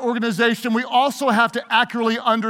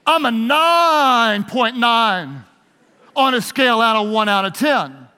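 smug boaster. Retold or imitated. Acted dialogue, boaster.

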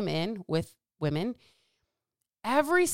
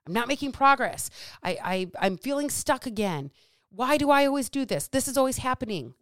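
stuck, frustrated client; 4 semitones higher than usual. Acted. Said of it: "that's a legit feeling".

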